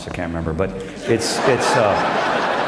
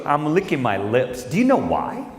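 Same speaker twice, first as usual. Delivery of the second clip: put-on kid voice; 4 semitones higher than usual. Son teasing dad about his treat. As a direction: drag it out playfully. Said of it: "He goes".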